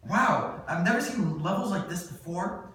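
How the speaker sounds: impressed wow. Acted. James reading Eve's test results, amazed. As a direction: marvel at the numbers.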